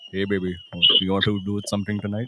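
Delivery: mock seduction with an Indian accent; Indian-accented come-on. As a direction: chat someone up in an Indian accent. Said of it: "just imagine me like".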